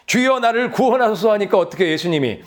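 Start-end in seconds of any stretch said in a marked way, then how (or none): 0.1-1.3 crying out to the Lord. Retold or imitated. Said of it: "소리 질러서 예수님을 찾으니까".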